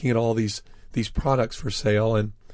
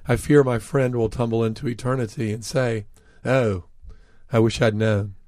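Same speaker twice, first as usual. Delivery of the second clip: understated, earnest retold remark; very serious. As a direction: say it gravely to the audience about a friend. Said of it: "feeling very serious, I said".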